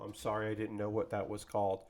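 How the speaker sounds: low, soft imagined apology; hushed, low pretend excuse; mock apology. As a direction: apologize meekly under your breath, acted. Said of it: "And I would go".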